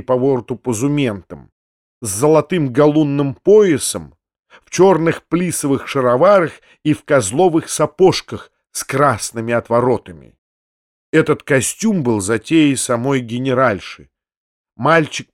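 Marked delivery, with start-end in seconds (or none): none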